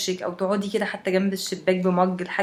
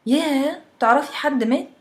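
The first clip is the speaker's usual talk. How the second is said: shocked; 6 semitones higher, 4 dB louder than usual. Acted. Shocked friend asks about deaths.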